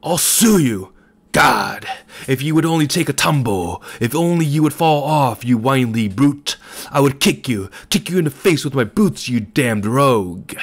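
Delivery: put-on enraged old man bellowing at a cyclist. A narrator's reading. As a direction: roar it like a beast. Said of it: "it was no longer a human voice".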